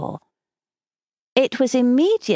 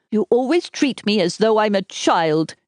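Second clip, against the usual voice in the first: lightly voiced sulky young man, a touch higher; 4 semitones higher than usual. A narrator's reading. Desmond whining to Isabel in a sulky voice. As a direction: complain like a petulant boy. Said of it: "he told her in a sulky voice".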